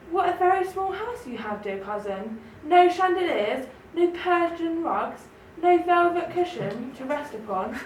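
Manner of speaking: a hint of a haughty, high-nosed city mouse; snooty Town Mouse. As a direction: look down your nose at the little house. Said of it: "his snooty remarks".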